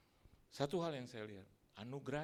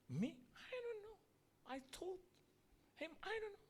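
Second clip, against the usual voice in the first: high, bewildered little voice; confused newcomer. Acted. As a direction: play a lost soul who knows nothing. Thief answers the archangel. (suara tinggi bingung orang baru)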